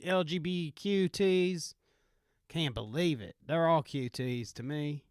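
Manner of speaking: lightly put-on Southern bumpkin accent; Southern country accent. Bumpkin griping about activists, Southern country accent. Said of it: "make sure I jumble up the letters".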